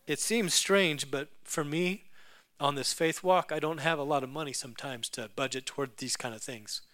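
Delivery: fighting back tears. Retold or imitated. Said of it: "fighting back tears again".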